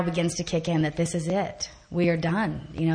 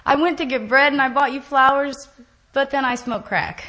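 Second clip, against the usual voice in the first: quoting husband; 7 semitones higher, 6 dB louder than usual. Retold or imitated. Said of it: "He was like".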